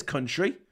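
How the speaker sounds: "country" with the emphasis on COUN; "country" front-stressed, so the swear word pokes out; stress on first syllable. Shown as a demonstration. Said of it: "Emphasis on the first syllable".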